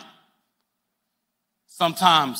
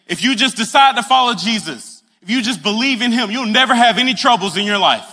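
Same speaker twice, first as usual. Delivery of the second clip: a hint of an overeager preacher, a little higher; mock preacher promise; 6 semitones higher, 3 dB louder than usual. Pastor promising listeners a life without troubles, lightly mock preaching. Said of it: "have them say".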